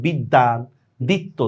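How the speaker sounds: বিদ্যান as "biddan", দ্বিত্ব as "ditto"; doubled consonant. Shown as a demonstration. Teacher demonstrates doubling, বিদ্যান and দ্বিত্ব with held consonants. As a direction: hold the double d and double t. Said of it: "তটা দুইবার উচ্চারণ করতেছি".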